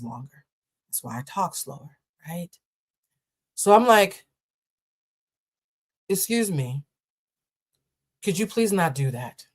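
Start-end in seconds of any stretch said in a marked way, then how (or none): 6.1-9.5 slow, measured politeness; overly polite. Retold or imitated. To the seat neighbor, slow forced politeness. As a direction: ask nicely, holding back anger. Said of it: "You see how polite I was?".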